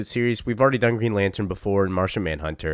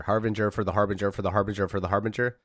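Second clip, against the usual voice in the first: fast tongue twister; faster than usual. Shown as a demonstration. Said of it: "six times as fast".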